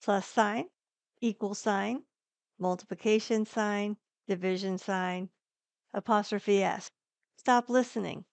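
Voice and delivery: distinct commands to the mic; dictating. Shown as a demonstration. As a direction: speak each symbol name clearly. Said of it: "And some math symbols".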